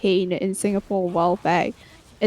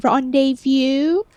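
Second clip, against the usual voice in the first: pedantic correcting; 3 semitones higher, slower than usual. Retold or imitated. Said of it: "grammar Nazism".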